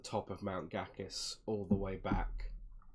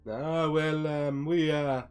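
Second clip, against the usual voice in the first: higher, louder in-character voice; friendly Vistani traveller; 6 semitones higher, 9 dB louder, slower than usual. Acted. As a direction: play a hospitable caravan host. Vistani explains travel plans.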